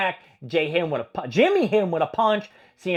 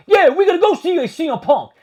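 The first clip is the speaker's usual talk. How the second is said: much higher, louder mock Usos voice; 12 semitones higher, 9 dB louder than usual. Vlogger imitating the Usos answering the interviewer, hammed up. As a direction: ham up the twins' cocky reply. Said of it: "They're like".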